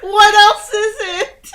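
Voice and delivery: high, loud slow laugh-cry; crying with laughter; wailing with laughter. Real, not acted. Laughing at the slip.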